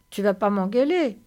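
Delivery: lightly voiced simple, eager companion; Lénie, childlike companion. Lénie asks George whether he will scold him, eager role voice.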